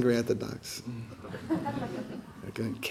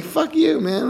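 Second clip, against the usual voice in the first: mock angry retort; slower than usual. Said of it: "so I was like".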